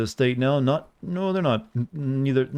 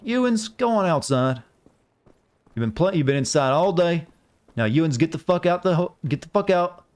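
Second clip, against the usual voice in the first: put-on higher-pitched, exasperated parent shooing a kid outside; a lightly voiced tired dad, raised pitch, swearing at the kid; fed-up parent; 4 semitones higher than usual. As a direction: play the worn-out parent who just wants a drink. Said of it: "See, is that good enough for you?".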